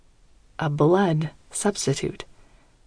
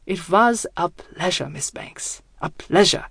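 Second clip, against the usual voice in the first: put-on German accent. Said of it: "Gustav chuckles softly".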